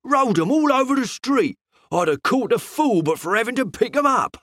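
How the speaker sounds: a hint of a grumbling shopman; heated shopman. A narrator's reading. Fruiterer complaining to the detective, mildly heated.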